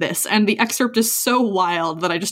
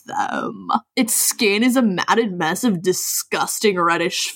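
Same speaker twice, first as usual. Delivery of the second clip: gym bro. Acted. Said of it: "a bro voice for me".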